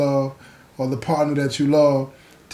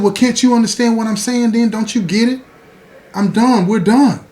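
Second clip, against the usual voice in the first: put-on fed-up girlfriend; 5 semitones higher, 3 dB louder than usual. Girlfriend breaking up, exasperated.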